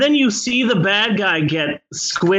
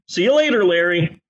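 bad acting; 3 semitones higher, faster than usual. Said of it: "With no emotion whatsoever".

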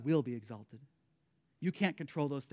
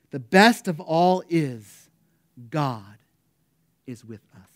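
John Wesley's last exclamation; 11 dB louder, slower than usual. Retold or imitated. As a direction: start strong, let each phrase sink away. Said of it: "he exclaimed with his last".

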